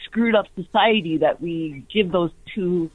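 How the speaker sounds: call-in caller on the phone; radio caller. Real, not acted. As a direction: voice over a phone line.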